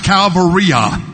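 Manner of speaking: "Calvaria" said as kal-vuh-REE-uh; Latin pronunciation. Shown as a demonstration. Preacher teaching the Latin for Calvary, pronouncing "Calvaria". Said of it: "is pronounced".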